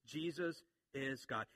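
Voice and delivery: slow, measured JESUS IS GOD; emphatic statement. Retold or imitated. Preacher repeats John's emphasis, slow and weighty. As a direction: give each word of JESUS IS GOD its own weight. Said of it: "That's his emphasis".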